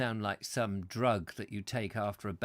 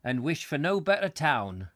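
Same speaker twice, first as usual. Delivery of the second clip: broad northern English local; hammed-up northern English dialect; northern English accent; 3 semitones higher, 5 dB louder than usual. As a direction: put on a rough-and-ready northern English accent. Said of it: "I'm probably killing the accent".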